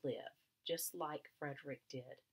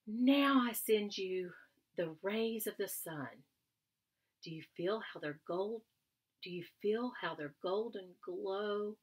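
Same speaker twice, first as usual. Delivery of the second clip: slow, louder, grand offering of sunshine; dreamy storyteller; 4 semitones higher, 6 dB louder, slower than usual. Acted. Frederick sharing sun rays with his family, dreamy slow telling. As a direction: spin the words like giving out warmth.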